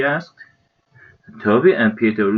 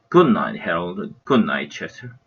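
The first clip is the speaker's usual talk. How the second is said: more calmly; 4 semitones lower than usual. Acted. Mom saying goodnight to the pets, calm and gentle. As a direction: settle down gently after the firm line. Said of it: "and then more calmly".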